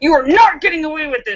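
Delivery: put-on stern scolding tone. Retelling cornering a robber in a parking garage: retelling stern yelling. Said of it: "I am yelling at him like you just yelled at a four-year-old".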